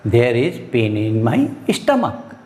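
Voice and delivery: very slow, clear demo; slow model sentence. Shown as a demonstration. Teacher modelling the English sentence, very slow. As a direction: spell it out slowly for students. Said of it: "उसको क्या कहेंगे".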